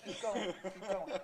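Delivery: director's hushed encouragement. Retold or imitated. Director urging the actor to keep rolling, hushed. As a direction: coax the actor on quietly. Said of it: "he goes".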